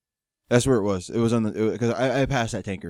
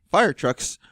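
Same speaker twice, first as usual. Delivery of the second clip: odd emphatic inflection on "fire trucks"; 5 semitones higher than usual. Real, not acted. Storyteller lists vehicles stuck in traffic, "fire trucks" oddly inflected. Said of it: "a reason for that inflection in fire trucks".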